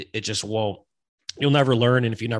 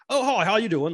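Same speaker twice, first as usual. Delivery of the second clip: lightly imitated charmer, pitched high; adorable greeting; 9 semitones higher, 4 dB louder than usual. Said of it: "used her accent to her advantage because it's adorable".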